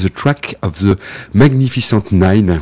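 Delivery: English title in a French accent; French speaker's English. Real, not acted. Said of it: "Vous pardonnerez mon accent anglais".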